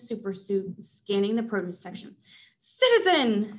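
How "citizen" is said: loud, slow villain bark; booming call. Acted. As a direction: make it explode through the store. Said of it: "Caesar's voice exploded".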